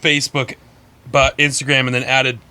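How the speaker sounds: talking through burps; words broken by burps; burping the words. Real, not acted. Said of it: "Sorry, I'm burping a lot".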